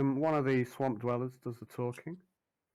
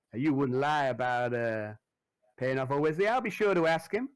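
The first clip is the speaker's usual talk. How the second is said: Derek, veiled threat; 3 semitones higher, 4 dB louder than usual. Acted.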